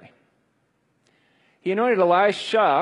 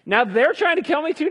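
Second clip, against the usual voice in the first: whining Elijah; 12 semitones higher, 3 dB louder than usual. Acted. Elijah's whine repeated.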